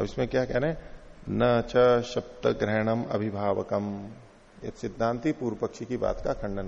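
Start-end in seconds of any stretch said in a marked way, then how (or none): 1.3-4.1 slow sutra recitation. Shown as a demonstration. Reciting Sanskrit sutra text.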